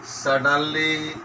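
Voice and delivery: slow word-by-word dictation; measured classroom dictation. Shown as a demonstration. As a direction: dictate with long gaps, each word drawn out level. Dictates exercise sentence.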